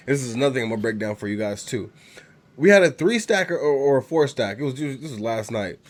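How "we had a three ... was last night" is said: stuffy, congested voice from a cold; blocked nose. Real, not acted. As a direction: talk through a head cold. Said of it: "I may sound a little congested".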